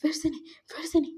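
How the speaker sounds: rapid, repeated pleas of denial; acted-out panic, tumbling into quick repeats; mild mock panic, stammered refusals; panicking. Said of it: "panic कर रहा था".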